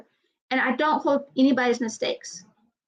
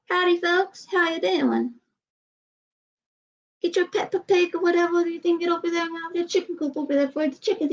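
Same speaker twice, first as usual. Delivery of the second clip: mock Southern redneck; 5 semitones higher than usual. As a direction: play a joking hillbilly greeting folks. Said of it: "I sound more Southern, like a redneck".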